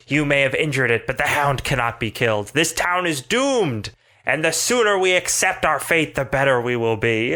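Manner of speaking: doom-preaching priest. Acted.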